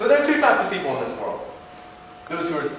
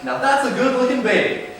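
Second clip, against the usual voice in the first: exclaimed; 5 semitones higher than usual. Shown as a demonstration. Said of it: "that person is a pedophile".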